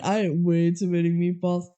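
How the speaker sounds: lightly voiced dopey guy; a hint of a goofy complainer. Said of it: "he's like".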